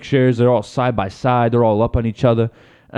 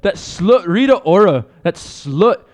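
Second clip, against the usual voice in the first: higher mock jealous wife; Conor's wife; 6 semitones higher than usual. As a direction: lay down the law as a put-on wronged wife. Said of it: "you Connor's wife".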